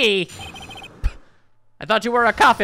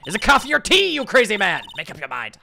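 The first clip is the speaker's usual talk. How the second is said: exasperated outburst; 3 semitones higher, 3 dB louder than usual. Real, not acted. Player exasperated at character's contradiction.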